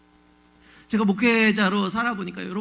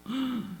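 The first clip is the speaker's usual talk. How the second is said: exasperated gasp; 10 dB quieter than usual. Acted. Exasperated at undeserving people prospering.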